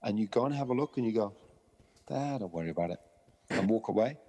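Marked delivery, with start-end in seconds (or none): 2.1-3.0 lower, easy reassurance; low, unbothered aside; casual reassurance. Retold or imitated. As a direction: brush it off gently to settle a dog. Calm owner reassuring the barking dog.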